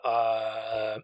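long, drawn-out filler; hesitant drawl. Retold or imitated. Host as Rand pausing before admitting it, hesitant. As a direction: stall with one stretched sound. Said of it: "Rand pauses for a dramatic effect".

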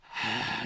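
long parental exhale; resigned sigh. Retold or imitated. Dad faced with cursing daughter, resigned sigh. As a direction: sigh before giving in. Parent reacting to child swearing.

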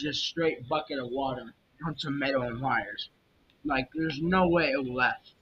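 talking while eating peanuts; words through a mouthful of peanuts; mouth full. Real, not acted. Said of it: "Sorry, I'm eating peanuts".

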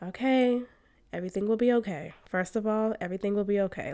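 soft, gentle reassuring voice, like calming a panicking friend; calm reassurance. Retold or imitated. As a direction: quietly soothe her, unhurried and kind. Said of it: "responded with calmness in her voice".

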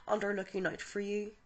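calm guided visualization read; guided meditation. Acted. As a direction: ease the listener gently into the light. Leads a guided healing meditation.

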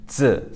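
"Z" as a slow dz, D and z run together; D-Z blend. Shown as a demonstration. Teacher showing learners the pinyin sound, "Z" as dz. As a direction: press the tongue for D, release "Z" as dz. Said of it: "more of like a D Z put together".

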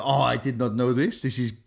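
lightly put-on French accent; hint of French, hesitant and puzzled; accidental French accent. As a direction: imitate a manager with a stray French accent. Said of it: "I don't know why he's French".

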